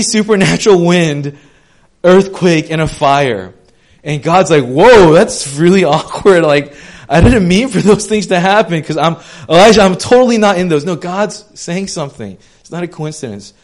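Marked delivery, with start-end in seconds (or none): 4.6-10.8 joking God voice. Retold or imitated.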